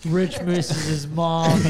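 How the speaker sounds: slow teasing laugh through the words. Real, not acted. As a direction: tease him while laughing. Teasing friend about missing mom.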